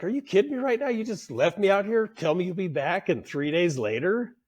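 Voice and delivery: starts very high, settles down by the end; how dare you, fading to a sulk; incredulous outburst. Retold or imitated. Apprentice complaining to the boss who left him, incredulous then settling.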